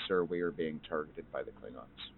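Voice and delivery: low, hushed voice to a superior; very soft speech. Acted. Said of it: "very softly say".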